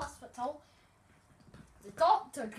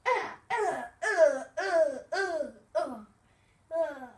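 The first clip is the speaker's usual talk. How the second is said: loud mocking laugh; 4 semitones higher, 9 dB louder, slower than usual. Puppet laughing at friend.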